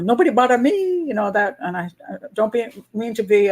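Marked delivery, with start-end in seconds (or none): 0.0-1.0 bad Korean accent. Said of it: "doing terrible accents of Junri".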